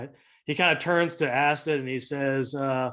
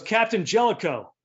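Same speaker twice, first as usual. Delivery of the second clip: mildly angry, higher-pitched call; angry captain; 7 semitones higher than usual. Acted. Andorian captain hails Jellicoe on screen, mildly angry. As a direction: address him with raised pitch and some irritation. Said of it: "he's pissed off".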